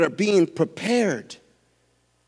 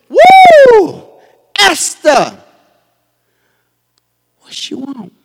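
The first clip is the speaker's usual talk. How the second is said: a hint of a smitten king, high whoop then a casual ask; king's delighted call; 12 dB louder, much slower than usual. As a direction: call out to her like a charmed king. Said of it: "I bet you he said it like that".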